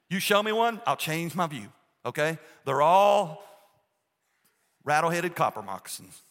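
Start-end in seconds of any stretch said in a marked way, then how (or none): 2.6-6.2 emphatic. Real, not acted. Emphatic rant about snakes.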